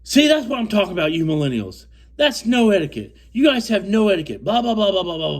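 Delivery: high, loud mock rant; mocking Bob. A fishing partner lectures millennials in a high, loud mocking whine. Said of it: "Bob goes".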